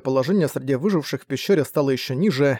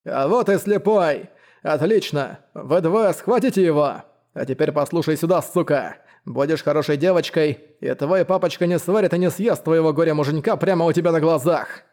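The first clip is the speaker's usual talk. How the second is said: gloating villain; 2 semitones higher than usual. Acted. Злодей глумится над слепым.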